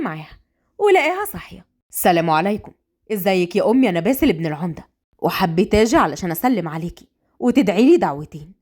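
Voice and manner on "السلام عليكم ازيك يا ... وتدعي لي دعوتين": well-mannered suitor; polite visitor. Acted. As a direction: lower male voice, respectful greeting.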